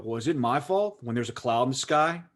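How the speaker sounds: retold rant building in volume and pitch. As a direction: start contained, then build into an indignant mock tirade. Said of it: "I just keep getting louder and louder".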